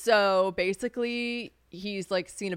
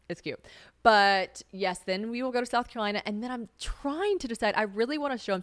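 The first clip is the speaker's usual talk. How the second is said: ordinary talk, nothing marked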